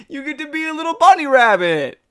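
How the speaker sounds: high, gushing and laughing; excited gushing. Real, not acted. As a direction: gush about the bunny. Defending the Easter event.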